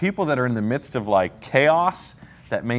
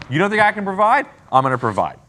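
higher and louder, God challenging the people; indignant God; 6 semitones higher, 3 dB louder than usual. Acted. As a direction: play God throwing the doubt back at them. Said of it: "So God says".

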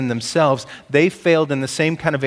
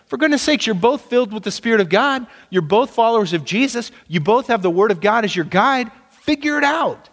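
higher, incredulous scolding of the church; exasperated apostle chiding bickering believers; indignant rebuke; 4 semitones higher than usual. Retold or imitated. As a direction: scold them like Paul would, higher and exasperated. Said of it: "he throws a fastball and says".

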